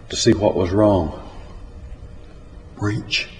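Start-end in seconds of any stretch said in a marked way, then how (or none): 2.8-3.3 hushed, soft; a quiet whisper. A narrator's reading. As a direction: breathe the word quietly. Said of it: "I whispered".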